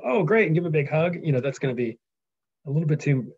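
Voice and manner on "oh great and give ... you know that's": mock delight. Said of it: "is Telemachus gonna go".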